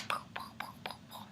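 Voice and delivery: soft, airy poofs; quick hushed puffing noises; imitated running puffs. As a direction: puff out little poofs under your breath.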